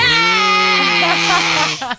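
loud eager yell; excited shout. Real, not acted. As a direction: shout it with glee. Agrees to sing-off.

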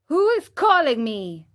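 a hint of fright in the question; frightened. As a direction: Pinocchio voiced mildly scared. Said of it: "greatly frightened".

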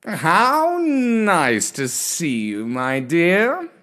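slow, purring gentleman cat; purring cat person. Acted. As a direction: purr the words like a contented old cat. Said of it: "he purred".

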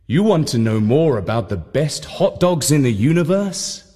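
a smooth voice teasing the question back; smooth announcer echo. Acted. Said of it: "said the voice".

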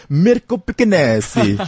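put-on Italian name in a showy Latin accent. Host introduces Italian guitarist, put-on Latin accent. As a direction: roll out the name with a Latin flourish. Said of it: "like an eighteenth Latino as I pronounce their names".

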